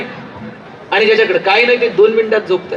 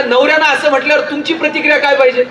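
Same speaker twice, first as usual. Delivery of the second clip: usual speaking voice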